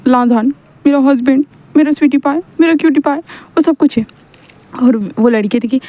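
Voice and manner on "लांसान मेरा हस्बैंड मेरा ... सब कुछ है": higher, sing-song lovey-dovey; high doting coo; gushing pet names. Acted. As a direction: coo over the husband. Drunk Wing gushing over husband.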